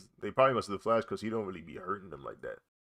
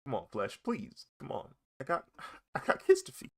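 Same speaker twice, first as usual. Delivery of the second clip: pleading villain; 4 semitones higher than usual. Pretend. Voices a villain pleading with Flash.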